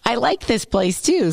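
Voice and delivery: can't stop doing the silly voice; lightly voiced ad read; put-on commercial voice. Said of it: "So why am I doing that voice?".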